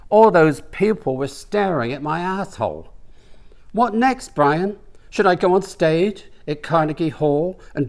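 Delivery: a hint of an embarrassed huff; indignant rant. Stefan rants to Brian walking home, indignant.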